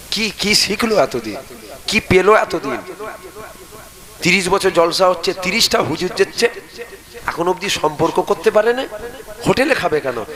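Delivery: retold fatherly rebuke, mildly heated; imitating angry father. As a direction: scold like an exasperated father demanding answers. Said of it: "একদম আব্বা খুব রেগে যায়".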